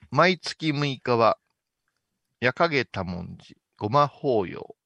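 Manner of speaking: slow, measured announcer read; commercial announcement. Shown as a demonstration. Director drafts the temple commercial's tagline, announcer-like. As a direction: read the event notice with pauses between phrases.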